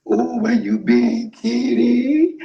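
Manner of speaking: slow, coaxing call to a cat; calling a lost pet. Pretend. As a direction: sweetly ask where the kitty went. Calling the kitty.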